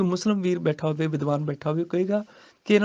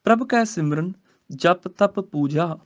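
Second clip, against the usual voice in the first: slow scripture recitation; slower than usual. Shown as a demonstration. Teacher recites the verse for students, slowly. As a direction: chant the verse slowly, rising.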